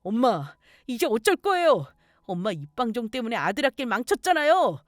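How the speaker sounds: exasperated whining rage, climbing in pitch; acted angry outburst at a parent; son's temper. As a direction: blame mother for ruining everything. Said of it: "막 성질을 내는 거예요".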